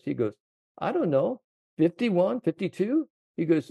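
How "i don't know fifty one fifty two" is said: much higher, amazed Scottish caddy. Retold or imitated. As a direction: squeak it out like the stunned caddy. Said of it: "the way he said it".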